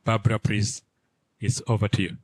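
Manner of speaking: ordinary talk, nothing marked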